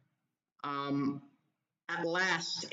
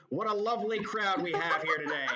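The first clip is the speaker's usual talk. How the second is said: prim baritone host; 3 semitones higher, 4 dB louder, faster than usual. Acted. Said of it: "speaks in a low baritone voice".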